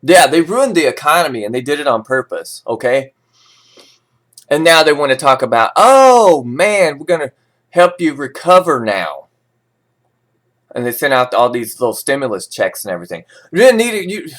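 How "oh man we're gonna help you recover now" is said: sarcastic, high-pitched mock reassurance; mock-friendly officials' promise; mocking quote. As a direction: mimic them sweetly, dripping with scorn.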